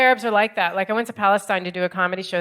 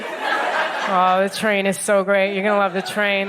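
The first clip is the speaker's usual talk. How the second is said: slow, drawn-out train praise; mock gushing; 2 semitones lower, slower than usual. Comic mocking locals' train praise, slow gush. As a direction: parody the locals' stock reply. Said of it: "and you're like".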